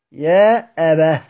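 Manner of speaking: يا أبا drawn out for the students; slow demo of the stop. Shown as a demonstration. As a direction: recite يا أبا carefully. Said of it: "بالهاء".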